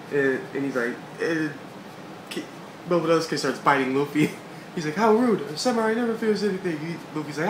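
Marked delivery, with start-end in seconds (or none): 5.0-6.8 put-on high, loud affronted boy; indignant shout. Momonosuke scolding Luffy, high loud indignant voice. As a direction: snap back like an insulted little samurai.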